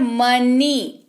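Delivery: "मनी" in two clear beats, long ई ending; two-syllable demo. Shown as a demonstration. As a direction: say "मनी" as मन plus ई. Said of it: "आप इसको बोलेंगे तो क्या हो रहा है?".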